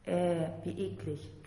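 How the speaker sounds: slow, lightly squawked disgust; a mild whiny squawk of disgust, drawn out. A narrator's reading. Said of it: "quäkte sie".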